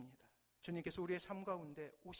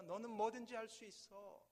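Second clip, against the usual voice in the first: louder, raised call of encouragement; full-voiced shout; 5 semitones higher, 5 dB louder than usual. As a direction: shout with all your voice. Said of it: "목청이 다해서 다시 한번 외치기". (목청껏 외치는 아버지)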